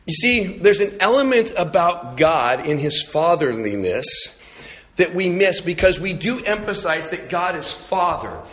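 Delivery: ordinary talk, nothing marked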